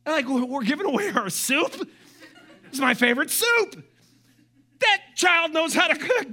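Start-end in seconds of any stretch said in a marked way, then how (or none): 0.3-3.8 higher, aghast at the soup given away; mock dismay. Pastor retelling his soup shock, mock dismay. 4.8-6.3 higher, louder, punching "That"; exclaiming. Real, not acted. Pastor boasting about his child's cooking, loud exclaim.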